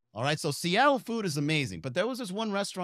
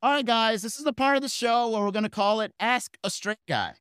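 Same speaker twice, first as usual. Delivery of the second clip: louder, higher announcer voice; emcee announcing; 5 semitones higher, 3 dB louder than usual. Retold or imitated. Host announcing Ask a Straight Guy. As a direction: present the game to the room.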